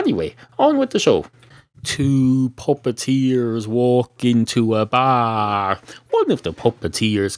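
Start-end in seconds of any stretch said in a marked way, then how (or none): 1.8-5.8 joke opener. Real, not acted. Starts the joke slowly.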